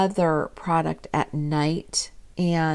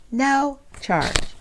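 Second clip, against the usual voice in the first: higher, delighted repeat; excited emphasis; 8 semitones higher than usual. Real, not acted. Repeating to viewers the tube was free, delighted. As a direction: lift it up in happy disbelief.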